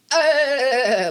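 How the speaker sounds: high squeaky cartoon grunt; Ralph laugh. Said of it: "this thing where you go like".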